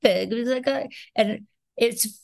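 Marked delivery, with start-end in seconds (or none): 0.0-0.3 high, slow Queens character whine; Queens accent. Retold or imitated. Mother answering her kids in character, Queens accent. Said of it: "on purpose characters like that".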